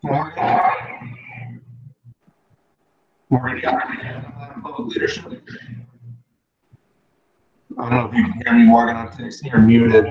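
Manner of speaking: choppy signal cutting out; bad connection dropping out; radio breaking up. Real, not acted. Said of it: "I think you're breaking up a little bit".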